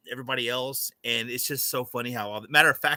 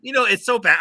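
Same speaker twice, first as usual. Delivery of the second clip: laughing; 8 semitones higher, 7 dB louder than usual. Real, not acted. Guest laughing at himself.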